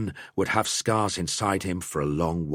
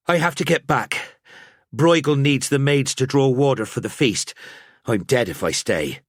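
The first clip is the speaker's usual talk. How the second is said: a hint of a hurried serving girl; young woman pulling away, a little higher; a maid excusing herself from his bedside, lightly voiced; 7 semitones higher, 3 dB louder than usual. Lenya's voice in the story.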